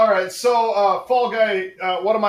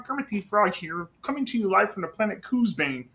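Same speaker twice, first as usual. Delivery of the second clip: a light Kermit impression, close to own voice; lightly voiced Kermit, not the best; Kermit the Frog; 3 dB quieter than usual. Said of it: "I do a Kermit the Frog impression".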